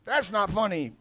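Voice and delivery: Southern dad with a high-pitched "Ow". Retold or imitated. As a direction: yelp it high, then protest like a Southern dad. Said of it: "a Southern dad will be like".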